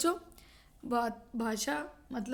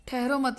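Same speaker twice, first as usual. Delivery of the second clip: "ठहरो मत" run together, falling on "मत"; pause after मत; 3 dB louder than usual. Shown as a demonstration. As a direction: join "ठहरो" to "मत", then stop. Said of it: "उसके बाद अल्प विराम आया". ("ठहरो मत" एक साथ, फिर विराम)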